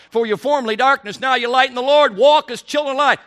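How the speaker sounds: fervent scripture proclaiming; preaching scripture. Real, not acted. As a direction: proclaim the verse with power. Quoting scripture at full force.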